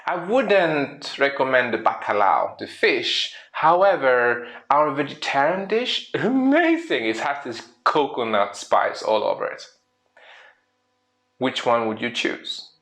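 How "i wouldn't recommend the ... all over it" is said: enthusiastic waiter. Retold or imitated. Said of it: "And the waiter goes".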